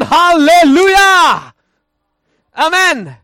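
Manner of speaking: loud, high, drawn-out hallelujah; shouted hallelujah. Shown as a demonstration. Preacher showing how the word should really sound, shouting it. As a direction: belt it out slowly at full voice. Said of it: "Se on, se on ristiriidassa".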